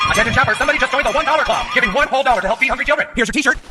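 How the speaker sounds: store announcement. Acted.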